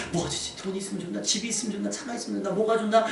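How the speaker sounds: soft musing to oneself; mock deliberating. Preacher acting the beggar dithering over what to ask, musing. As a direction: quietly weigh one option after another. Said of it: "막 고민하지 않았어요".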